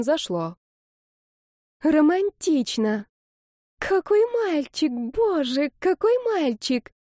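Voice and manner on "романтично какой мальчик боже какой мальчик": very high, slow gushing sighs; a gushing commenter swooning over the guy; swooning fan. Acted. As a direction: melt over the boy. Gushing commenter read aloud.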